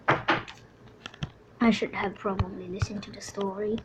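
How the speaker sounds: whispered regret to yourself. Acted. Trapped passenger on the Titanic whispering regret. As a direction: breathe it out in a hushed whisper.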